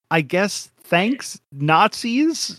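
hesitant, questioning lift on the words; reluctant thanks. Pretend. Podcaster grudgingly thanks the villains for the rescue, hesitant and questioning.

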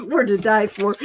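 said through giggles; laughing. Real, not acted. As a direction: break up laughing as you say it. Laughing over the whitey tighties.

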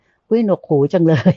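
drawn-out, lightly exasperated exclamation; a touch of playful complaint, slowed down; mock annoyance. Laywoman recalling first chatter after silence, mildly exasperated mock complaint.

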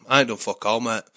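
put-on Northern English accent, gruff and casual. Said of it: "in the best northern accent".

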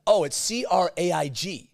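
put-on American accent. Gushing American friend naming her new boyfriend, high and bright. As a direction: squeal the name like a smitten American. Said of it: "the way Americans pronounce the name Craig".

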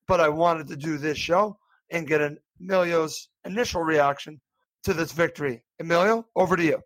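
hoarse, strained throat; talking through a sore throat. Real, not acted. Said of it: "I'm a little bit hoarse".

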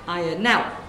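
lightly voiced gossiping northern woman, chatty; northern shop lady. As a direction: natter away like a corner-shop lady. Sketch, shopkeeper jokes.

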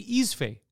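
"Isfe" said slowly as EEZ-fay; Pig Latin form. Shown as a demonstration. Local demonstrating Park X slang, "Isfe" pronounced slowly as eez-fay. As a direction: draw out "Isfe", two clear syllables, eez-fay. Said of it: "Pig Latinicize it, so we'll say".

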